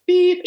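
imitated phone beep. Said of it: "your phone would beep".

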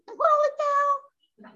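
high, slow, stretched-out amazement; a drawn-out holy cow; disbelief. Real, not acted. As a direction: drag it out in astonishment. Exclaiming in disbelief.

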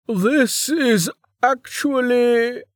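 slow, polite interruption; a hint of a tired guard cutting in; polite minder. A narrator's reading. Minder interrupting Niriri, slow and polite.

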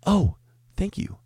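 high but modest squeaky thanks; the first, milder take of the customer; original impression. Original version of customer's thanks, milder high squeak. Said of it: "This is how it was".

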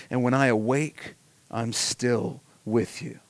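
measured, reverent psalm reading; scripture reading. Acted. Pastor reading a psalm to the congregation, reverent and measured.

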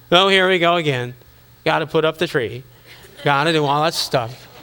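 weary, grudging sigh of a chore; mock bah-humbug grumble. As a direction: grumble like a reluctant Scrooge. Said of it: "bah humbug your way through Christmas".

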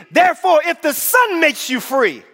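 high proclamation, slowing to the end; emphatic preaching. Real, not acted. Preacher declaring freedom to the church, emphatic preaching. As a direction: proclaim it high, drawing out the last words. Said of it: "I said".

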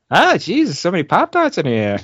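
lightly done Mark Wahlberg, surprised and bewildered. Retold or imitated. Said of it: "How would Mark Wahlberg say".

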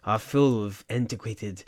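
slow, lofty art-snob voice, put on; mock highbrow artist speaking in riddles; pretentious artsy code. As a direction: intone it like a pompous gallery artist. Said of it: "Great job. I think that was it exactly".

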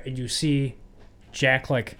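ordinary delivery

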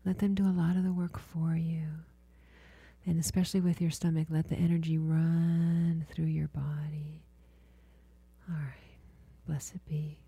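healer guiding a client through body listening, hushed and soothing; guided meditation. Acted.

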